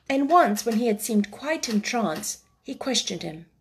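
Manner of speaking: measured storybook reading; story narration. A narrator's reading. Reading a chapter to young listeners, story narration. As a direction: read it out like a classic children's novel.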